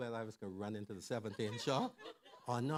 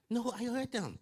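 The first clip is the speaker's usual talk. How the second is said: higher and louder, bursting with laughter; laughing; 11 semitones higher, 6 dB louder than usual. Real, not acted. Father recalling his kids' scheming, laughing loudly. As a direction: laugh through the words.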